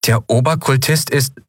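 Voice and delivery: rising, slowed disbelieving question; puzzled. Acted. Lien asking friends, puzzled and shocked. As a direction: stumble over it in disbelief. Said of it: "fragte sie verdutzt".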